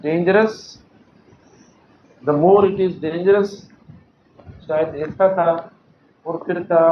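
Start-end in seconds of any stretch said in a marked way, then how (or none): 0.0-0.6 slow model reading. Shown as a demonstration. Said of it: "ये वाला sentence देखो". 2.2-3.6 slow, careful reading of the error; slow deliberate classroom demo; wrong version read slowly. Shown as a demonstration. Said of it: "ये sentence error है".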